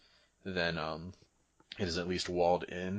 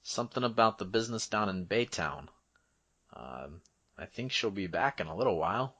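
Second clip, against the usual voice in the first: higher, hedging guard voice; casual guard character; 4 semitones higher, 3 dB louder than usual. Acted. Guard tells visitor of captain's whereabouts, casually hedging. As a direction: think aloud in a raised voice, then settle.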